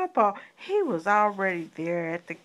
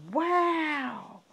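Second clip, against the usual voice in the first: delighted; 7 semitones higher, much slower than usual. Acted. Praising the child's answer.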